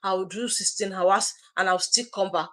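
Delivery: lightly voiced reluctant excuse-maker. Coach mimics someone refusing a business risk, whining excuses lightly. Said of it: "you say".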